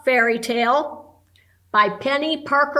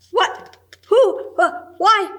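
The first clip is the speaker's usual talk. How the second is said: startled; 9 semitones higher, 5 dB louder than usual. Acted. Judy startled by William's dishes.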